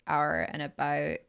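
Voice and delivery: Canadian accent. Shown as a demonstration. Contrasting Canadian with American, Canadian accent on "our and about". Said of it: "a Canadian would say".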